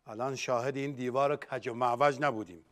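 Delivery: low, soft, resigned musing; defeated lament. Acted. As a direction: mourn it quietly to yourself. Defeated host laments crooked schooling. (غمگین و آهسته، از سر ناامیدی)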